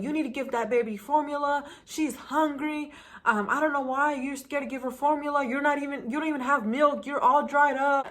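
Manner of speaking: a hint of a meddling aunt scolding; pushy aunt. Nosy aunt pushing formula on the new mom, lightly imitated and bossy. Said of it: "she was like".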